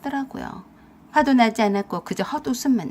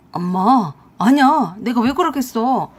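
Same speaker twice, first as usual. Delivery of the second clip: loud, flustered protest to mother; caught-out son backpedalling; panicked denial; 6 dB louder than usual. Acted. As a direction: deny it in a fluster. Son caught, denying to angry mother.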